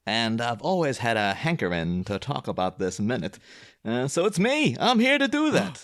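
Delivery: lightly voiced character, pitch drifting up; put-on character voice. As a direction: slip into a mild character voice for the intro. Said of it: "Can you please do that voice".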